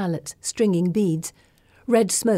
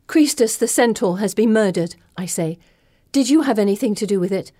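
urgent demand; 3 semitones higher, 4 dB louder than usual. Acted. Accusing Circe of murder.

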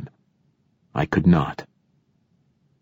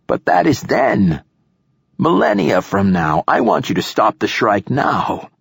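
put-on higher-pitched, insistent old man; snapping; 5 semitones higher than usual. A narrator's reading. Old poet dismissing an objection about the Shrike, snapping. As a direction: snap back, starting high. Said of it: "snapped the old poet".

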